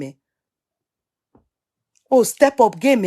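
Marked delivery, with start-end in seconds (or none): 2.1-3.1 pushed louder and more insistent, rising on oh; a friend nagging to level up, louder; louder insistent repeat. Real, not acted. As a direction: repeat it to press the point home.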